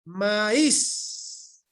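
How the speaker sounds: "maíz" as ma-ÍS, drawn out on the i; correct hiatus pronunciation. Shown as a demonstration. Teacher repeating for students to observe, hiatus pronunciation. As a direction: split "maíz" in two, leaning on Í. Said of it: "la vocal débil está en un nivel superior".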